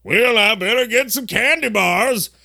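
a hint of a fretful past self; flashback accent. Recalling last year's Halloween candy panic, lightly put-on flashback voice. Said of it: "That's how you know we're flashing back".

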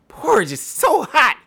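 put-on squeaky high girl voice, falling; high Goldilocks voice. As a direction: play a little girl burning her mouth.

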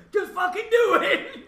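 high, loud yell through laughter; drawn-out, laughing shout of defiance; mock defiant shout. Drunk man daring the cops to arrest him, defiant shout.

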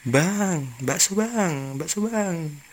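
high, falling call to the vendor; mock kid's yell. Hidden kids prank the meatball seller, mock yelling. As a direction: imitate calling out from hiding, without real volume.

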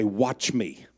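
low, quiet and sure; calm, quietly confident. Retold or imitated. Jesus voiced in sermon.

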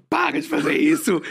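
high, sharp mock reprimand; mock scolding. Scolding a friend during the trip, mock sharp. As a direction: snap at her to stop, half joking.

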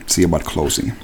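low, soft cold repetition; menacing echo. Acted. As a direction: repeat his words back quietly, as a threat. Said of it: "gas station proprietor".

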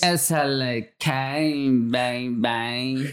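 slow, unconvincing Southern drawl; badly faked Southern accent. Shown as a demonstration. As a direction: stretch it into a shaky try at Southern. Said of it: "that's not a Southern accent".

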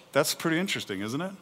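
usual speaking voice

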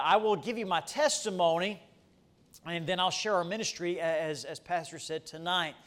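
ordinary talk, nothing marked

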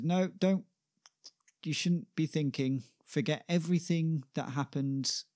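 high-pitched, hurried-off dismissal; insistent refusal. Acted. Shakespeare stops John discussing what happened, insistently dismissive. Shakespeare cuts off John's talk.

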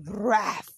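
quick rough "vraf" sweep sound; voiced whoosh of tossed stuff; imitated flinging noise. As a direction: mimic things being swept to the floor. Mother flinging things on floor.

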